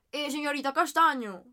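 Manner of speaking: slow, drawn-out mocking teacher voice; lightly mocking impression of the teacher; mocking teacher imitation. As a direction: mimic the teacher's put-on formal address, slowly. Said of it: "pero hablaba así como".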